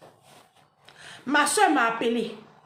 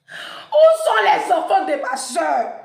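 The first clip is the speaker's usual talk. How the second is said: slow, loud, desperate question; anguished loud question; 5 semitones higher, 10 dB louder, much slower than usual. Retold or imitated. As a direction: plead to know where the kids are. Question angoissée. (question angoissée, lente et forte)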